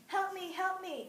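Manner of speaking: high, slow desperate cry for help; frightened scream. Acted. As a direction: call out falling, terrified. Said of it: "screamed the girl".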